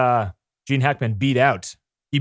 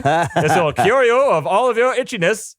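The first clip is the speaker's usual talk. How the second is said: lightly voiced slick huckster; a hint of a smooth salesman pitch; snake oil salesman voice; 3 semitones higher than usual. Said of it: "you're getting your snake oil, uh, voice down now".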